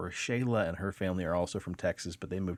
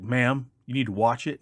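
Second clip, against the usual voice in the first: stern trooper; 4 semitones higher, 6 dB louder than usual. Retold or imitated. Trooper warns wife.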